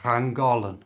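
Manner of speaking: Llangollen with a Welsh ll; Welsh place name. Shown as a demonstration. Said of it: "And this is".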